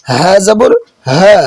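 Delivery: হা pronounced with full voiced sound; resonant হা. Shown as a demonstration. Teacher shows learners the letter হা, resonant and slow. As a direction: sound out the হা fully, drawn out slowly. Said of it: "দবনি সহকারে উচ্চারণ হবে".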